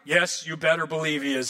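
usual speaking voice

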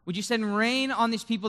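impassioned pleading that builds; desperate, passionate prayer. Acted. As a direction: beg God with mounting urgency. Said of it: "he asks God desperately, passionately".

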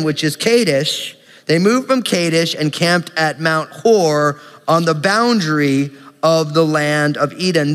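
brisk, even public Bible reading; reciting a long list, landing on each name; scripture reading. Acted. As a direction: read the list of place names out confidently. Resumes reading the verses.

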